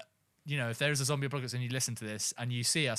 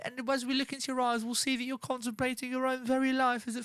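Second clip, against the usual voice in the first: mocking taunt; 10 semitones higher than usual. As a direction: savour the victim's fear. Taunting imagined victim.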